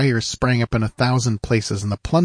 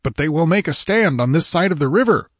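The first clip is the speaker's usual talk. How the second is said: raised, insistent protest; mildly raised exclamation; cried out; 7 semitones higher than usual. A narrator's reading. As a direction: cry it in desperate hope. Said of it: "cried the king".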